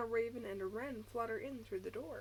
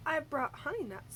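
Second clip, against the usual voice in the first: grinning badger; 5 semitones higher, 4 dB louder than usual. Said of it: "says Badger with a grin".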